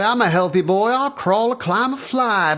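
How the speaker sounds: loud, high, building bravado; eager boast. Acted. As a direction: boast it out, climbing in pitch. Roy boasts he will climb.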